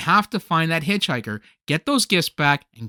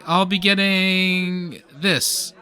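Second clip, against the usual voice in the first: stalling; much slower than usual. Acted. Stalling purchase after being told off.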